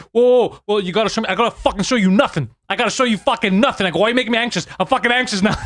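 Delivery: yelling at the Walmart guard, a laughing mock rage; retold heated rant. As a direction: replay the blow-up, half laughing. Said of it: "He's like this".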